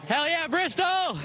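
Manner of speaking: slow, high triumphant shout; excited cheer. Real, not acted. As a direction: belt it out in victory joy. Driver cheers after winning race.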